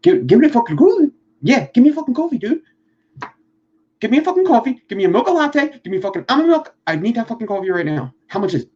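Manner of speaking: put-on high, loud, rapid-fire Philly accent; hammed-up Philly coffee order accent; fast Philly accent. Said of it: "that's like a Philly accent".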